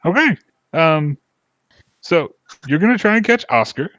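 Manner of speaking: high, hearty festival host; jolly dwarf. Acted. Dwarf inviting the group to festival games, high and jolly. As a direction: sell the party with a big grin.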